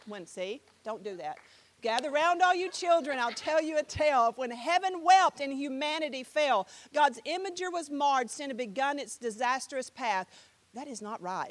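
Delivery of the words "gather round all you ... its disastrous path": rhythmic, lifted storytelling verse; spoken-word recital. Shown as a demonstration. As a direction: recite to a gathered crowd, keeping the beat. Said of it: "this is a spoken word here".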